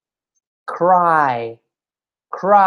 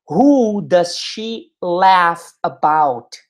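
"Who do they swim with?" said at half speed, each word spaced; slow teaching model; much slower than usual. Shown as a demonstration. Teacher models the question slowly for the class, drawn out. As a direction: stretch every word out for learners. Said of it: "slow model question".

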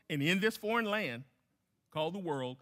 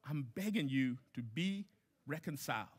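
voicing God pleading; 3 semitones lower, 4 dB quieter than usual. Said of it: "He says".

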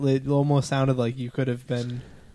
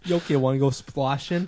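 put-on Boston accent. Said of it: "the best Boston accent you're gonna get".

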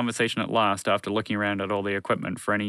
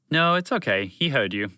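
calm, reassuring interruption; smooth it over calmly; mildly soothing; 4 semitones higher than usual. Acted. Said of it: "Montgomery the Moose said calmly".

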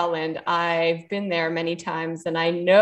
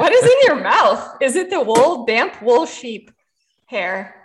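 laughing; 3 semitones higher than usual. Real, not acted. Laughing at partner's mouth.

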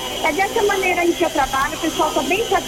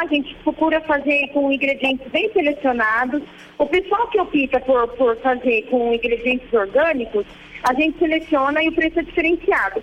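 faint voice on a call; over a landline phone; 4 semitones lower than usual. Real, not acted. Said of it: "Fala mais alto". (voz baixa ao telefone)

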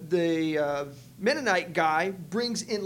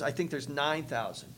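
calm; 4 semitones lower, 6 dB quieter than usual. Retold or imitated. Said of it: "he says it like he's just calm".

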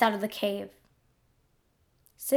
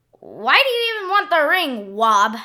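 trying to sound angry; 4 semitones higher, 4 dB louder than usual. Acted. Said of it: "I was trying to sound angry".

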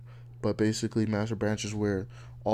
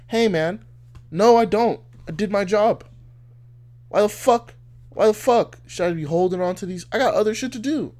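indignant coworker; 9 semitones higher, 7 dB louder than usual. Retold or imitated. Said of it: "You're like".

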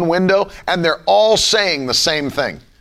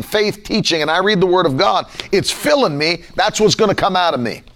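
ordinary delivery

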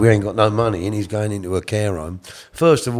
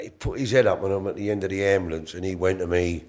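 usual speaking voice

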